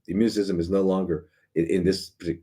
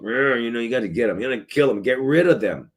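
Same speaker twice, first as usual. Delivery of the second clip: mock-aggressive get-the-enemy voice, pitched up; mock rallying; 5 semitones higher than usual. Mimicking the enemy-hunters' rallying cry, mock-aggressive. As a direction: play at urging an attack, higher than usual.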